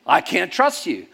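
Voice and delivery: I can't trust you, loud and slow, now from the pastor; turned-back accusation. Retold or imitated. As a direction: mirror his accusation back. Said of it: "I said".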